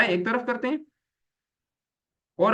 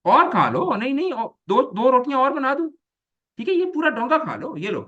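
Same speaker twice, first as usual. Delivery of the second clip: high, swooping sarcastic offer of more food; sarcastic mother; 7 semitones higher than usual. Shown as a demonstration. Mother mockingly urging her child to eat more, sarcastic. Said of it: "कहने का अंदाज है उसमें sarcasm पाया जाता है".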